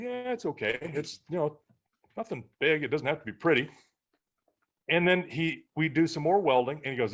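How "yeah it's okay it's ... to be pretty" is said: higher-pitched, easygoing brush-off; retold reassurance. Parent retelling telling Braden the weld is fine, reassuring. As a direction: play down the rough weld, voice lifted.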